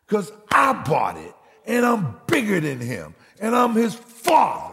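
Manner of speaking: preacher shouting out his claim as the father; indignant shout. Acted. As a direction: hit it hard like a wronged father.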